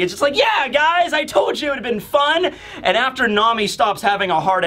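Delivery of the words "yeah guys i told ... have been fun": high, carefree cheering; Luffy, happy and cheery. Acted. Luffy cheers to the crew after the jump, happy. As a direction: crow happily to your friends. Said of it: "Luffy's all happy and cheery".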